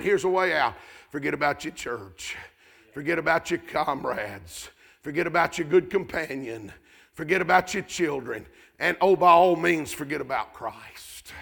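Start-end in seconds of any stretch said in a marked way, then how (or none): 1.1-11.3 low, soft, sly tempter's voice; soft mocking tempter; mock tempting. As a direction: tempt them quietly to let it all go. Mock advice to quitter.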